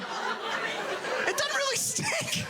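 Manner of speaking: high, very slow, drawn-out denial; defensive denial. Retold or imitated. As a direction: stretch it out, unconvinced. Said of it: "And you're like".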